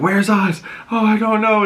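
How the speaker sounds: shrugging off the question; imitated henchman. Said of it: "he's like".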